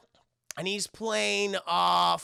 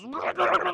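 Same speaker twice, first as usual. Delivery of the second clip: high garbled burst of panicked babble; imitated freak-out noise; 12 semitones higher, 4 dB louder than usual. Demon walking into the seal, imitated freak-out noise. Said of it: "he starts freaking out and shit".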